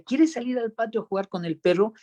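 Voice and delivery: put-on lifted, sing-song question to a baby; mother talking to baby. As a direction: coax the baby like a mother would.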